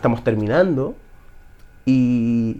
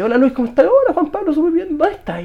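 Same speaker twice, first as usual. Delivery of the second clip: pitched-up, cheery phone hello; retold phone greeting; 13 semitones higher than usual. Retelling mentor's call at the family home, high cheery greeting. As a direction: act out both sides of a friendly call, voice lifted high.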